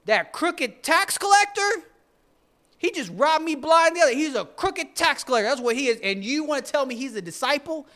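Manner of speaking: high, loud indignant yell; outraged crowd. Retold or imitated. Townsfolk objecting to Jesus choosing Matthew, loud outraged voice. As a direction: shout it in disbelief. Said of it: "everyone else is like".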